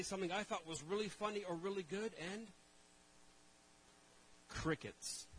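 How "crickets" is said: crickets in a light mock Chinese accent; a small joke Chinese accent on crickets. Preacher jokes about the silence in a mock Chinese accent. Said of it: "With a Chinese accent".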